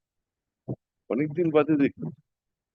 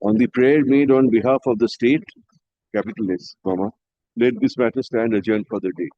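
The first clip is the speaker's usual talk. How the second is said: dictating; 3 semitones lower than usual. Real, not acted. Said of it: "লেখো".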